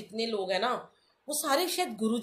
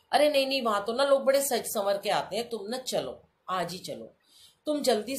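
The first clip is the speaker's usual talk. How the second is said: aunty insisting; 3 semitones higher, 3 dB louder than usual. Retold or imitated. Aunty urging her to come.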